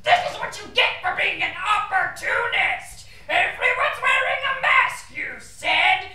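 squeaky ventriloquist dummy. Acted. Angry dummy yelling at ventriloquist.

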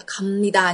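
갑니다 said as gam-ni-da; careful demo of 갑니다 with a humming m before 니; nasalised consonant. Shown as a demonstration. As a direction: turn the ㅂ in 갑니다 into an m. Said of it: "lưu ý đọc là gì ạ".

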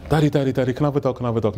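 put-on rapid, repeated child's begging; mimicked eager little girl; pestering daughter. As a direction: nag Dad in a quick, lightly voiced kid way. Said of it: "My daughter wanted a dog".

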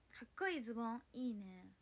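usual speaking voice

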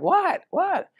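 very high-pitched mock "what?"; retold high little questions; imitating her surprised reaction. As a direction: imitate a woman in a squeaky-high voice. Retells woman's reaction to silent smiling.

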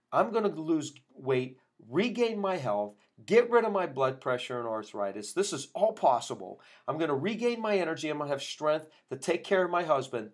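mildly excited retelling of a patient's resolve; retold excitement. Patient tells chiropractor her new goals, mildly excited. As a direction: list each goal with rising conviction, lightly imitating her excitement. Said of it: "She was so excited".

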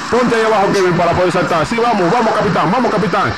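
hyped play-by-play narration; epic game narration. Acted. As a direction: narrate the fight like a trailer.

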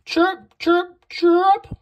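high, loud chirping; high-pitched sound words, each one separate; cricket chirps. A narrator's reading. Cricket noises in a children's story.

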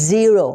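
"zero" starting on a held, buzzing z; buzzed initial Z. Shown as a demonstration. Teacher models Z words for learners, buzzed start. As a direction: lean on the z of "zero". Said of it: "ออกเสียงเป็น".

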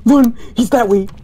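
high, urgent yell to friends; yelling across the room. Real, not acted. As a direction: shout a panicked warning. Spotted the ghost, warning friends.

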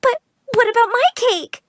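put-on high, halting child's whimper; tearful pleading. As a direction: plead near tears, stumbling at the start. Child pleads for her cake.

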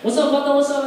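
high, loud put-on Mexican homie voice; mock Mexican accent. Comic posing as Mexican in prison, mock Mexican accent. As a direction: greet like a Chicano homie, hammed up. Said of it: "I'm fucking Mexican".

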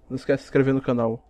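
normal talking voice

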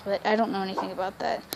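soft whispered aside; whispering. Real, not acted. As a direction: drop to a whisper. Aside while talking to camera.

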